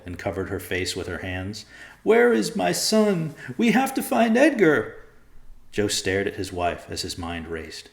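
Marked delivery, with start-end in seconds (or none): 2.0-4.9 high, loud desperate plea; frantic pleading. A narrator's reading. Rachel frantically pleading with Joe about her son. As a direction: beg him to find the boy. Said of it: "pleading with him".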